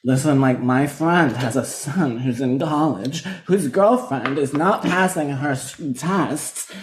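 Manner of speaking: slow, mock Meredith drama voice; imitating Meredith. Cohost imitating Meredith telling a wild story, slow. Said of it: "would be like".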